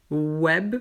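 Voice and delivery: "Web" starting with a w glide; web without V. Shown as a demonstration. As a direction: open "Web" on a rounded oo sound. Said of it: "sans le V".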